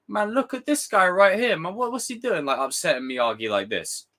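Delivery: hammed-up disbelief at Daniel; mock outrage. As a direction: act shocked and offended.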